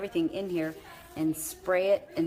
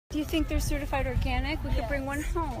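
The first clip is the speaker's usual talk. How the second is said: cutesy high voice; 8 semitones higher than usual. Real, not acted. Talking about dog, baby voice.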